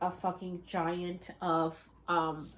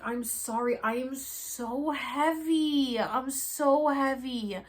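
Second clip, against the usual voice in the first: weary apology; 5 semitones higher, 4 dB louder, much slower than usual. Retold or imitated. Apologising to the helper.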